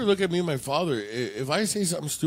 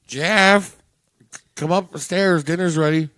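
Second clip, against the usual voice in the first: raised, projected mother's call; 4 semitones higher, 8 dB louder than usual. Retold or imitated. Mother calling her son upstairs for dinner, calling out. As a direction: call up to someone on another floor.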